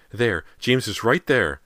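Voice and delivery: loud, high, drawn-out insistence; frantic cry. A narrator's reading. Mother points at thin air, frantic high shout. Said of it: "Callie's mother pointed furiously".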